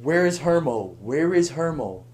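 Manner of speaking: mild mock calling out; half-voiced retold yell. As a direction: imitate friends calling for someone. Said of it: "all I hear is yelling behind me".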